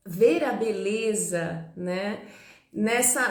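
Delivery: ordinary talk, nothing marked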